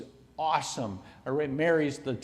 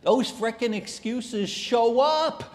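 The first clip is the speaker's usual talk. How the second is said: laughing; 9 semitones higher, 5 dB louder than usual. Real, not acted. Excuses personified, laughing.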